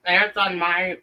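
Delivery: talking through a mouthful of food; words round a bite of food; mouth full. Real, not acted. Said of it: "I'm speaking with my mouth full".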